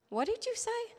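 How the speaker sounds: high, stunned question; startled question. Retold or imitated. Acquaintance hearing familiar names, stunned and high. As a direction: ask as if you can't believe it.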